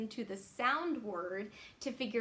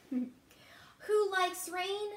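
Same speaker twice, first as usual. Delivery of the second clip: slow sing-song; 7 semitones higher, much slower than usual. Acted. Refrain read to children.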